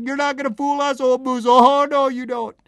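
high-pitched mock-frightened protest; acted frantic refusal. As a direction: protest high, as superstitious loggers. Loggers refuse to be fooled by moose.

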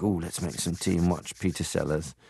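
lightly voiced Liverpool accent; a hint of a Liverpudlian father; Liverpool dad. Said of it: "my dad had a Liverpool accent".

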